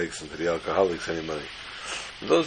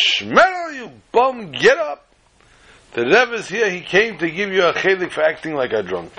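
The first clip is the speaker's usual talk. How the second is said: shrill wife yelling him awake; screaming wife; 10 semitones higher than usual. Acted. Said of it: "and screams".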